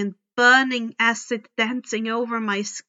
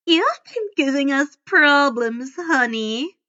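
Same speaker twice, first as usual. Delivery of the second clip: a loud, mild monster snarl; lightly voiced snarling fury; 4 semitones higher, 5 dB louder than usual. A narrator's reading. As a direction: threaten him through a snarl. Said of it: "she snarled".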